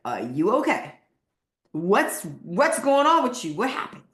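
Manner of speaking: rising, startled questions; surprised concern. Retold or imitated. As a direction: act amazed at the change. People asking what's going on.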